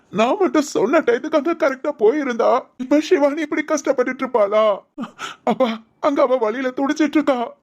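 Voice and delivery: acted tearful lament to father; tearful self-blame. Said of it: "இப்படி அழுதுகிட்டு இருக்க".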